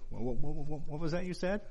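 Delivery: teasing wife. Retold or imitated. Wife working on husband to make him repeat it, teasing question. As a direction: feign not hearing, pitch rising all the way.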